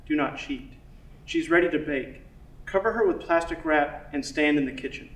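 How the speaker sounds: measured poetry recital with pauses between lines; poem reading. Acted. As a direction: read your poem aloud, letting each line land. Reads own poem aloud.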